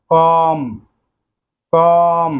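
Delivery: কম said slowly and clearly, with the final b silent; careful pronunciation. Shown as a demonstration. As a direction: model the word কম for the class. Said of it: "Then রয়েছে".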